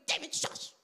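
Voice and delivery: whispered shush; hushing. Acted. Brothers trying to silence outspoken David, in a hushed whisper. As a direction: cut him off in an urgent whisper.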